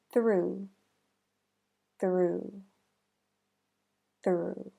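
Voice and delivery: "three" with a quick th rolling into the r; "three" with the tongue pulling straight back from the th into the r; "three" with the th and r run together fast; TH blended into R. Shown as a demonstration. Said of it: "rolls and pulls back quickly to blend".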